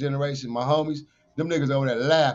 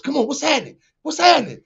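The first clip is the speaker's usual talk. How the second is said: taunting yell; 9 semitones higher, 6 dB louder than usual. Retold or imitated. Taunting the women to fight.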